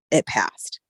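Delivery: breathy whispered relief. Real, not acted. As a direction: let it out as a whisper. Relief after the tests.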